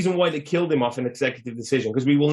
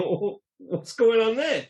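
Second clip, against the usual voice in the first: mock-puzzled, higher and drawn out; imagined onlookers' puzzlement; 7 semitones higher, slower than usual. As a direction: play a baffled onlooker, slowly. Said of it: "I can imagine everyone just going".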